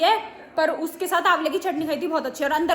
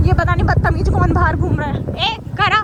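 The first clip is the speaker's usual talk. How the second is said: calling out; 6 dB louder than usual. Real, not acted. Calling out at someone outside.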